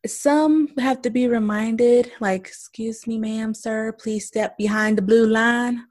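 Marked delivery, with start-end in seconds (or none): 2.5-5.9 mock customer-service politeness; polite store manager. Manager telling a customer to step back, politely. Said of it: "Do you say it with a little twang in your voice like that?".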